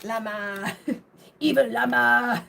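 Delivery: hammed-up evil llama; spooky evil llama voice. Retelling the llama joke to viewers, mock spooky voice. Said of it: "And I'm like".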